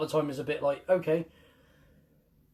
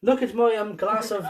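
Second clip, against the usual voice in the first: posh toff voice; 5 semitones higher, 3 dB louder than usual. Pretend. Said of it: "Let me get my monocle".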